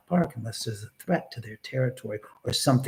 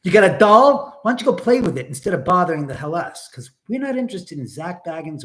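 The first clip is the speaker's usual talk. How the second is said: angry rant; 3 semitones higher, 6 dB louder than usual. Real, not acted. Angry rant at chat troll.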